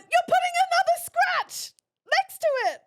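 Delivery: furious high-pitched shout at the mover; outraged yell. Retold or imitated. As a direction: scream it in disbelief. Outraged at second scratch.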